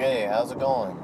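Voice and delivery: lightly put-on Mexican accent; a hint of a caricatured Mexican accent; casual greeting in a loose, fake Mexican accent; mock Mexican accent. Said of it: "that voice".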